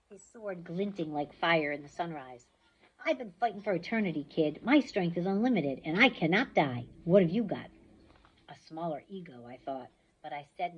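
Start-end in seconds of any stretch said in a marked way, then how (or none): 3.0-7.7 menacing taunt. Acted. Ares taunting, god of war.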